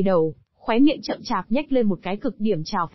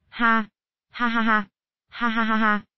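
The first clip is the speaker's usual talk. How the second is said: mad laughter. A narrator's reading. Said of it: "cười như điên".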